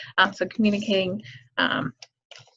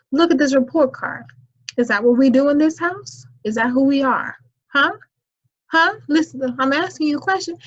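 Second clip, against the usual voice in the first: stern mama scolding, getting higher and louder; disappointed mother; 3 semitones higher, 5 dB louder than usual. Acted. Mother confronting her child over a report card, disappointed. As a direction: lay into the child like a disappointed mom. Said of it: "disappointed mother voice".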